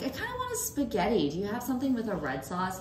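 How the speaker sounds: high, fast customer voice; lightly voiced picky diner; picky diner asking for red sauce; mock customer. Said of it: "they're like".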